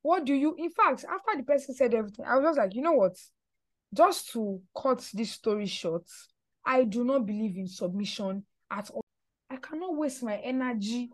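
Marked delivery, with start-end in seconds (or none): 0.0-0.5 retold calm voice. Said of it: "In a very calm voice". 2.8-11.1 low, soft, unhurried refusal; calm voice. Retold or imitated. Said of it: "In a very calm voice".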